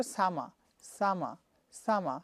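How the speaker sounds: slow classroom drill of summer, British style. Shown as a demonstration. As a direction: repeat summer slowly without the R. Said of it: "R will be silent".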